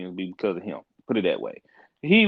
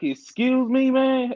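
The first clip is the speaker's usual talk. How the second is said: incredulous retort; 13 semitones higher, much slower than usual. Retold or imitated. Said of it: "I was like".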